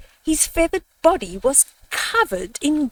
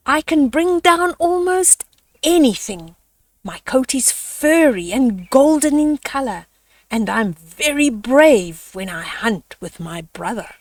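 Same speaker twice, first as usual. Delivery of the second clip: boasting hyena; 2 semitones higher than usual. Acted. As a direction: sell yourself to the crowd. Hyena pitches himself as king.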